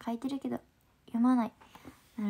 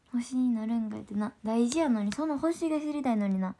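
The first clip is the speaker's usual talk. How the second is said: ordinary delivery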